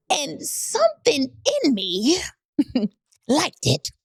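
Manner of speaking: giggly, embarrassed confession; laughing. Real, not acted. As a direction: laugh while admitting it.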